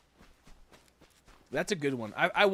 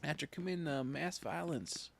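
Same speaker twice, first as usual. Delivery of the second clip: hushed punchline; 3 semitones higher, 5 dB quieter than usual. Acted. Streamer whispering a dark punchline to chat.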